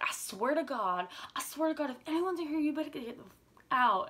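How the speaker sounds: high, loud-ending mock fury; mama bear threat. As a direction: imitate a fierce protective grandma. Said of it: "such a mama bear".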